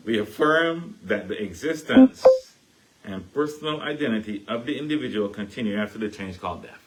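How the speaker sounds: slow, carefully spaced recital of the creed; slow down and say each word clearly. Shown as a demonstration. Re-reading the creed for listeners, slow and clear. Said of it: "Let me go really slow".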